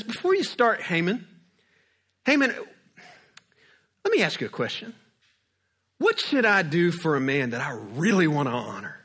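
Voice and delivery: high, pressing royal summons with repeated name; a king calling Haman in, keen to ask; eager king. Retold or imitated. King calling Haman in before he can speak, eager.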